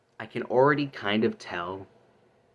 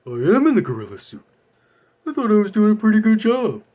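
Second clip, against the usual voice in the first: loud, dopey cartoon voice, louder and higher; Patrick voice; 13 semitones higher, 9 dB louder, faster than usual. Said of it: "mimic the voice of Patrick from SpongeBob".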